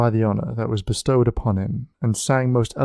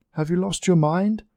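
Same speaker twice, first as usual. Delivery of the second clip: shouted rebuke; 7 semitones higher than usual. A narrator's reading. Leonardo shouts up at Marguerite on the lion, scolding. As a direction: scold her sharply from below. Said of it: "Leonardo shouted at her".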